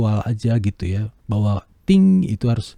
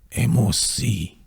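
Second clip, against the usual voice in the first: slow demo; much slower than usual. Shown as a demonstration. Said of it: "saya contohin ini".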